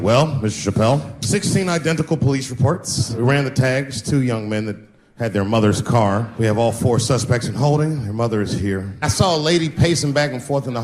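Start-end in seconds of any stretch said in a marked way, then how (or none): 0.0-8.9 low cop voice. Retold or imitated. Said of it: "they're like".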